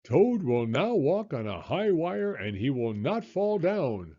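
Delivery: strange voice. Acted. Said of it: "said the voice".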